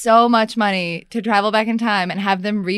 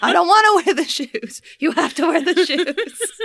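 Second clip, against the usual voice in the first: mock bossy exchange; 7 semitones higher than usual. Acted shoes argument, higher voice.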